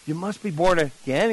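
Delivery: "again" lifted into an unsure question; soft statement that rises doubtfully on "again". Retold or imitated. Nervous evangelist answers the man grabbing him, softly questioning. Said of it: "little bit of question in his voice".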